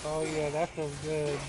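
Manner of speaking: grinning while talking; smiling voice. Real, not acted. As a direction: say it through a smile. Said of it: "I know you can hear the smile on my face".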